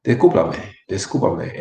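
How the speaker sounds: discúlpame quickly blurred into one breath; relaxed conversational discúlpame, loosely enunciated; run together, casual. Shown as a demonstration. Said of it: "run together and it become faster".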